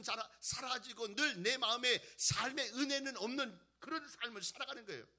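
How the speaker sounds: loud, high sermon delivery, building in force; impassioned preaching. Real, not acted. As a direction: exhort the congregation with mounting intensity.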